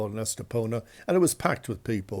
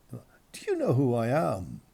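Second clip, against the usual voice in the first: whisper. Retold or imitated. Asking the woman quietly.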